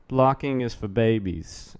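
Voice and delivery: put-on slow, lightly done Kennedy accent; a hint of Kennedy accent, drawn out. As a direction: say it slowly, Kennedy-style accent. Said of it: "I said that in a Kennedy accent".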